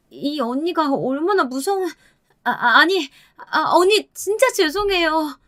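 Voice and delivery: high, stammering panic; 겁먹은 상간녀. Acted. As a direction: blurt it, break off, then plead in a high voice. 상간녀가 겁먹고 급히 사과. (겁먹어 더듬으며 높은 목소리로 사과)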